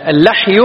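"اللحي" with an a, al-lahyu; "اللحي" pronounced lah, not lih; fatha on the lam. Shown as a demonstration. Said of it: "بفتح اللام".

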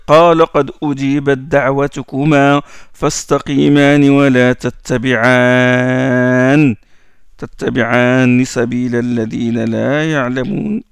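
measured tajwid chant of the verse; Quran recitation. Acted. Recites verse from sourate Yunus.

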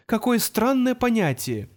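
slow, drawn-out musing. A narrator's reading. Marvin musing to Arthur, slowly drawn out. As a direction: stretch every word. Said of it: "протянул он".

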